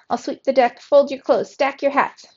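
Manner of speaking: high, loud, punched-out list; eager cry. A narrator's reading. Nephew offering his uncle chores, crying out eagerly. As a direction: reel off promises eagerly. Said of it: "he cried".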